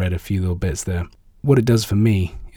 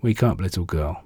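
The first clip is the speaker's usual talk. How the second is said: tender. Acted. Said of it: "says tenderly in Aramaic".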